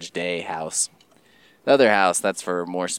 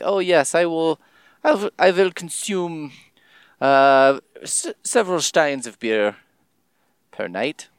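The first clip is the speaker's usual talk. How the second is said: hammed-up, higher-pitched German accent; bad German accent; 7 semitones higher than usual. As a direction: attempt a clumsy German accent, badly faked. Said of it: "I am the worst at accents".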